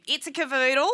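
lightly voiced straight girl with rising end; a hint of straight girl, lifting at the end. Shown as a demonstration. Comic recalling the earlier voice, light straight-girl imitation. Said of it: "the straight girl voice".

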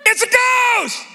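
high frightened cry of a fisherman; scared yell. Retold or imitated. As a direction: yell it like a terrified disciple. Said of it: "they said, and they cried out in fear".

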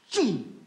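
quick vocal zoom; whoosh imitation. Comic telling of Lulu running the red light, whooshing imitation. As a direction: mimic a car whooshing past.

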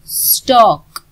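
स्टॉक said with no R before the final k; silent R. Shown as a demonstration. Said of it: "आर silent".

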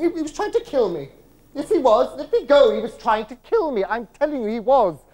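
a mother in a fit, pleading wildly; frantic mother. Retold or imitated. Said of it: "And she was saying".

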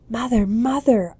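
put-on loud, high child's call; eager shout into the tent; shouting for mother. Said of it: "I shouted".

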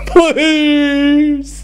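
dazed, sheepish druggie voice with laughs; sheepish stoner. Retold or imitated. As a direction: play the stoned passenger pleading. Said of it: "with this sheepish look on his face going".

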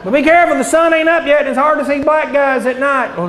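mild southern forecaster voice; a light southern twang on the warning; southern weatherman accent. Retold or imitated. Mock southern weatherman warning drivers, light southern accent. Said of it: "really strong southern accent".

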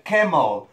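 camel said as KEM-ol; English camel. Shown as a demonstration. Teacher models camel for Spanish-speaking kids, saying kemol. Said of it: "pero he dicho camel".

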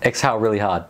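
muffled inside snorkel mask; speaking through a face mask. Real, not acted. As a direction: voice behind mask visor. Seen 1: Woman wears full-face mask throughout; some lines likely from off-screen man.

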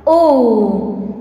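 "O" held as a long vowel; vowel sound demo. Shown as a demonstration. Teacher showing what sound it will produce, held vowel. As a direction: hold "O" as a letter sound. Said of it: "it will produce sound".

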